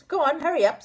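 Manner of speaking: impatient. A narrator's reading. Moonface pushes rabbit.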